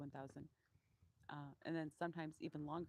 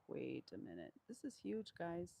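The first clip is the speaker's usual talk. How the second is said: voicing the donkey. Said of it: "He's like".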